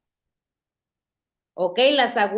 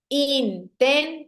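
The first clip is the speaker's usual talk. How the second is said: syllable by syllable. Shown as a demonstration. Teacher splitting a word for students, syllable by syllable. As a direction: say intensidad in four clear chunks. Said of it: "voy separando las sílabas".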